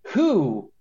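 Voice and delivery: incredulous, laughing. Real, not acted. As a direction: laugh through the question. Mocking the Intimidate ability.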